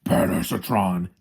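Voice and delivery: slow mock catchphrase delivery; Bumblebee. Quoting a childish movie joke, drawn-out mock boast. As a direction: draw it out like a cartoon robot's boast. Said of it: "Bumblebee's like".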